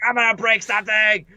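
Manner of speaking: hammed-up upset outburst; super upset. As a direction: imitate a friend losing it at a game. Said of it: "like, super upset".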